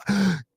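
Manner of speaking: imitated starstruck gasp; sharp intake of breath in mock excitement; excited gasp. Imitating a kid who spots an influencer, excited gasp. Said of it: "he was as excited".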